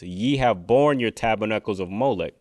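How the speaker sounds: measured, emphatic verse reading; slow reading. Shown as a demonstration. Preacher breaking down the verse, slow reading. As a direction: read it out deliberately for the listener. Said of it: "I'm gonna read it real slow".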